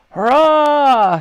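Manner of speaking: loud, high, long hurrah; shouted cheer. A narrator's reading. Soldiers celebrate every barrel hit, shouted cheer. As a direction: cheer with all your might. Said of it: "shouted the soldiers".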